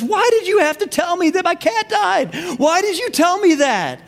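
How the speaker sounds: high-pitched, hammed-up upset wife; mock hysterical wail. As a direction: wail it like a distraught wife, playfully overdone. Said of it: "She screams, she drops the phone".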